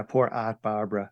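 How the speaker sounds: light Boston accent on Aunt Barbara. Shown as a demonstration. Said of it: "I had to say it with a Boston accent".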